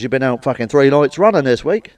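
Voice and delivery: hammed-up telling-off; nagging partner. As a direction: scold him like a fed-up girlfriend. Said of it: "what she actually said was".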